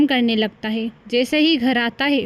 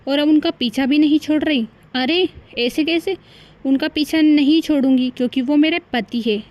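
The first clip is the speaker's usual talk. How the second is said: indignant quarrel; 3 semitones higher than usual. Acted. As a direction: snap back in indignation. Wives quarrel over husband.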